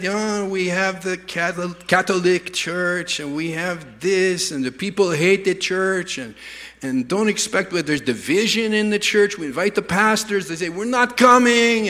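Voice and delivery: put-on French accent that slips into Russian; badly faked French-accented complaint. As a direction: attempt a French accent and land near Russian. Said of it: "I can't do a French accent".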